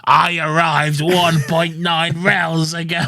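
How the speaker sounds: slow, loud robotic Dalek delivery. Retold or imitated. Dalek answers Dan's question, slow loud robotic monotone. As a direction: intone it like a deadpan machine. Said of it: "the Dalek's like".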